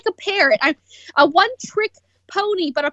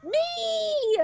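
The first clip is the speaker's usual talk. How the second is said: high laughing cry of Me; proud giggling shout; 9 semitones higher, 5 dB quieter than usual. Real, not acted. Answering with a laugh.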